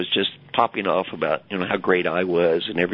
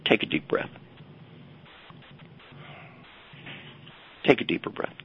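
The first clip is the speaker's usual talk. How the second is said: guided breathing; 2 semitones higher, 9 dB quieter than usual. Shown as a demonstration. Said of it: "I want everyone listening".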